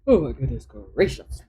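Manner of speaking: talking through a yawn; words stretched by a yawn. Real, not acted. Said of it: "I have got to stop yawning".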